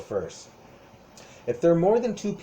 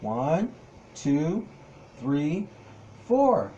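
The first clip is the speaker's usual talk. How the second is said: put-on teaching a child to count; much slower than usual. Shown as a demonstration. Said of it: "Count with me".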